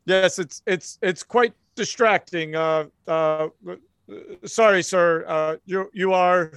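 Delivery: hesitant, deferential stammer; sheepish, halting politeness; flustered officer. Acted. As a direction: fumble an apology to a superior. Flustered officer answering an angry agent.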